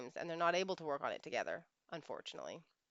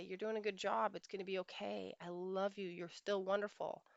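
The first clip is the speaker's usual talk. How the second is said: softer, gentle reassurance; tender reassurance; 5 dB quieter than usual. Retold or imitated. Husband holding his tired wife, tender reassurance. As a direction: comfort in a softened voice. Wished-for comforting words from husband.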